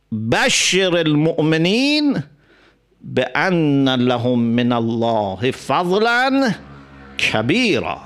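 slow, melodic recited verse; Quran recitation. Acted. Preacher recites the verse to the congregation, slow and melodic. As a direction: draw each word out like chanting scripture.

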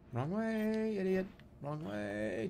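high, soft sing-song "wrong way"; drawn-out call. Real, not acted. Player heckling in a game, drawn-out call. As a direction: stretch the last word out high and long.

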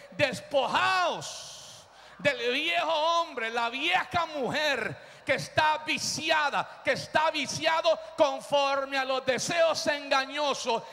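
slow, drawn-out scripture proclamation; preaching at full force. Real, not acted. Preacher proclaiming Ephesians to the church, full force. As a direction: stretch the key words for the congregation.

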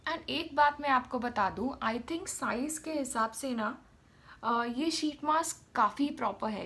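lips framed by wet sheet; wearing a sheet mask. Real, not acted. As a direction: stiff cheeks under mask. Seen 0: Wet sheet mask covers face, mouth cutout; R frames bare-faced.

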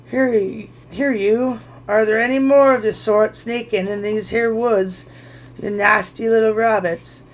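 loud, rough troll demand. Acted. Bert to Bilbo, a loud rough demand. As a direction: shake the words at him.

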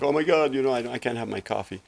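mock panic. Guest mocks people stressed about their coffee, mock panic. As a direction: mimic someone fussing over a small thing. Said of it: "they feel like".

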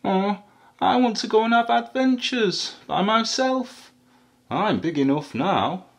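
high, eager little voice; baby elephant. A narrator's reading. Baby elephant telling mum she wants adventures, high and eager. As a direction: pipe up like a determined baby elephant. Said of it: "a baby elephant who said".

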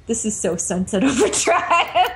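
delighted quote breaking into laughter; Ted, gleeful. Retold or imitated. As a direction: imitate someone thrilled by the chaos, then crack up. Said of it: "Ted was on the bus and he was like".

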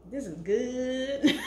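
slow, drawn-out laughing delight; savoring with a laugh. Real, not acted. Tasting her food for viewers, slow laughing delight. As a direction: stretch it out, laughing with pleasure.

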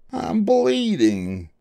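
high, drawn-out fox yelp; hammed-up cry of alarm. A narrator's reading. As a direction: wail it very high and long. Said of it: "the fox yelped".

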